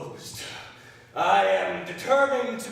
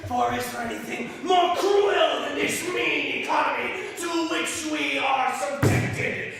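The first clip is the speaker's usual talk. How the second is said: raised, forceful outpouring of grievance; impassioned lament; 3 semitones higher than usual. Acted. Brother complains to his sister about their miserly father, impassioned. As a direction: declaim it with mounting indignation.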